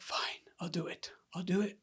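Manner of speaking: half-whispered, grudging agreement; reluctant giving in. Retold or imitated. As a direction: give in under your breath. Giving in to the Spirit, retold.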